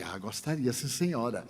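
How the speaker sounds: soft, humble yes to the hostess; softly accepting the lady's invitation; meek acceptance. Retold or imitated. Humble guest accepting politely.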